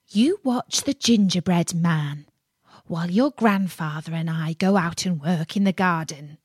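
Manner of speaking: lightly voiced grandmother giving instructions; old woman's order. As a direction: firmly warn the boy as grandma.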